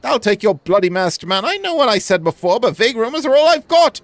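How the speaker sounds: grumpy merchant. Acted. Merchant brushing off the masked man question, mildly gruff. Merchant snaps about rumors.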